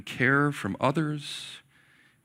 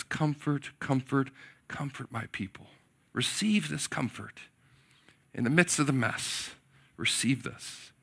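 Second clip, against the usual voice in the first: soft, quiet and gentle, fading away; tender comfort; 7 dB quieter than usual. Acted. God comforting his weary people, soft and gentle. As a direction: speak comfort like a whisper of grace. God's comforting words, voiced.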